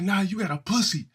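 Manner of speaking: high mock kid voice; boy teases the tomboy; taunting kid.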